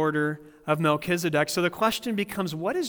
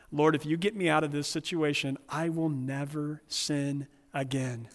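bravado prayer; 2 semitones lower, 5 dB quieter than usual. Retold or imitated. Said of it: "With all of the bravado of Peter".

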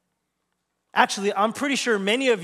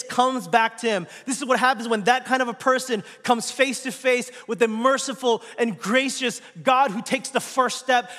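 impassioned sermon, pitched up, pressing on without let-up; fervent preaching; 4 semitones higher than usual. Acted. Preacher telling the congregation how the Father welcomes them back, fervent preaching. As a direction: preach it with driving, insistent energy.

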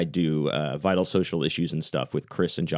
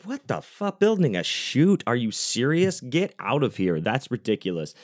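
retold rant; 4 semitones higher than usual. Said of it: "I kinda went off on the show".

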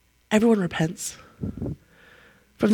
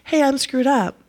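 higher, breezy mock confession; mock casual confession; 5 semitones higher than usual. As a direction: toss it off casually. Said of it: "this modern repentance".

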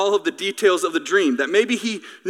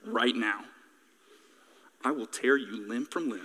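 mock threat; 8 semitones lower, 11 dB quieter than usual. Father mock-threatens son.

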